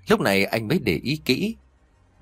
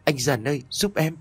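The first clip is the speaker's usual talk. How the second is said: sobbing plea; 6 semitones higher than usual. A narrator's reading. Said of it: "khóc nức nở".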